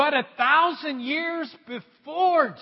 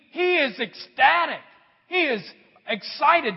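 excited; 3 semitones higher, 5 dB louder than usual. Real, not acted. Preacher building up excitement.

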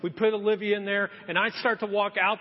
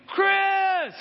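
a sharp shout of his name, much higher and louder; angry yell; 12 semitones higher, 5 dB louder than usual. Retold or imitated. Wife scolding her husband over the cold house, angry shout.

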